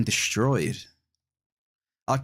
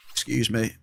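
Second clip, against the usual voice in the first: hiccup interrupting speech. Real, not acted. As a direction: excuse a hiccup. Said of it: "Sorry, I got the hiccups".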